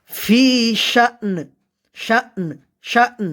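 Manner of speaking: "শা'n" with a stop, then a light n; pronunciation drill. Shown as a demonstration. Teacher drilling learners on "শা'n" with stop and light n. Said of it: "উচ্চারণটা ভালো করে শিখে নিই".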